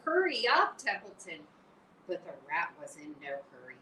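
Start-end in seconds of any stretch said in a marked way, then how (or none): 0.1-1.5 higher, louder urging; urgent cry. Acted. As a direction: push him to hurry. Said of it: "cried Wilbur".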